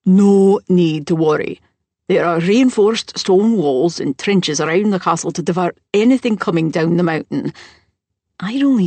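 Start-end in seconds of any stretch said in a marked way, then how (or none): 0.0-7.5 a touch of louder, firm command; calm the crowd with authority; authoritative voice. Acted. Host reassuring frightened guests, firm and louder. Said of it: "his authoritative, no-nonsense voice".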